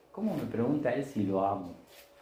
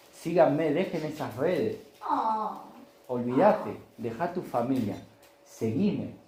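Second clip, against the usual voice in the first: commanding call; 4 semitones higher, slower than usual. Acted. Jesus calling the fishermen.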